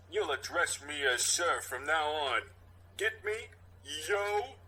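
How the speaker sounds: hint of a stern cop; lightly voiced stern cop. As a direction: lean in and lay down the law. Cop intimidating kid.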